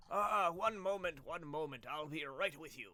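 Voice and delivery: a busy host calling out, one moment; mage calling through door. Acted. Mage behind the door calls to the arriving party, polite and unhurried.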